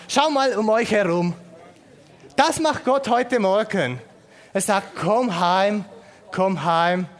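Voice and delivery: rally the room to wave; rousing call. Real, not acted. Gemeinde winkt gemeinsam. (mitreißend, lauter Aufruf)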